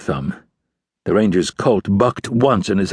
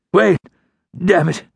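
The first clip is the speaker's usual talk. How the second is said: pained outlaw; 11 semitones higher than usual. A narrator's reading. Outlaw halting as gun cocks.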